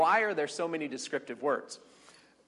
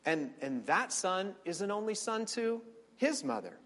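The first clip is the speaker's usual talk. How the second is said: lightly voiced pleading. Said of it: "Abraham said to God".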